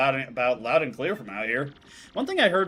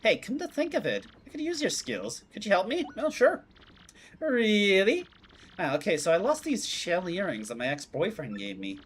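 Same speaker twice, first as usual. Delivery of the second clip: put-on high, sing-song girl's voice; a bubbly, staccato girly voice, much higher; 3 semitones higher than usual. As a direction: chirp each phrase in a choppy sing-song lilt. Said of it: "weird sing-song staccato thing".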